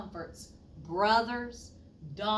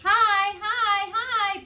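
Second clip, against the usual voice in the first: loud, higher hearty hi's; booming greeting; 11 semitones higher, 13 dB louder than usual. Acted. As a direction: boom the hello across the room. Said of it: "boomed a familiar voice".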